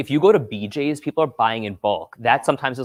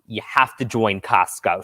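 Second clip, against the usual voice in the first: imitating mom; 3 semitones lower, 3 dB louder, slower than usual. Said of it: "she says".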